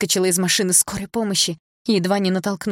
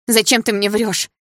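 loud, slow, higher accusation; gasping with pain; 5 semitones higher, 5 dB louder than usual. A narrator's reading. Polina accusing Sasha of lying, gasping with pain. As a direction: push it out slowly through the pain. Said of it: "задыхаясь от боли".

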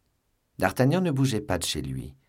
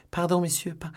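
higher, choked-off plea; stifled plea; 10 semitones higher than usual. A narrator's reading. The gagged woman pleading with the men, stifled. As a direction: beg until the voice is cut off. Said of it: "murmura la voix".

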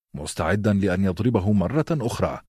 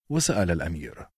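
ordinary delivery, nothing marked

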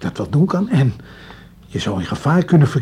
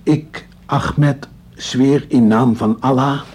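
solemn oath; much slower than usual. Acted. Repeating oath on Koran.

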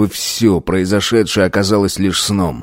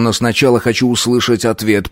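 usual speaking voice

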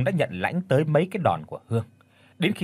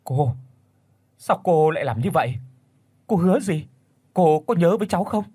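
higher, louder accusing outburst; bitter and resentful; 5 semitones higher, 4 dB louder than usual. A narrator's reading. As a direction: confront the woman who betrayed her. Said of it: "rồi uất hận nói".

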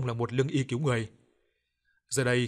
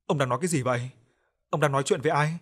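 crying question; 2 semitones higher, 3 dB louder than usual. Acted. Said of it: "bà vừa khóc vừa hỏi".

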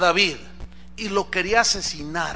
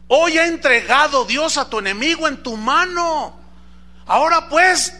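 high, raised dramatic reading; urgent declaration; 6 semitones higher, 4 dB louder than usual. Acted. Abisaí tells David his enemy is handed over, high urgent voice. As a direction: proclaim it as an eager urging.

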